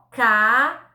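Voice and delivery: "cabeludo" broken into CA, BE, LU, DO with pauses; sílaba por sílaba. Shown as a demonstration. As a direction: spell out "cabeludo" syllable by syllable. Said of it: "Quatro sílabas". ("cabeludo" devagar, separando as quatro sílabas)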